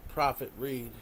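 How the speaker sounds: loud, pleading call out. Acted. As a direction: cry out to be brought back. Calling on prophet to return.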